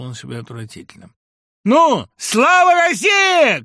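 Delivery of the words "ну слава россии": much higher, louder, slow bellowed toast; theatrical toast shouted far louder and higher; showy shout. A narrator's reading. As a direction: bellow it and drain the glass. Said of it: "крикнул свинообразный".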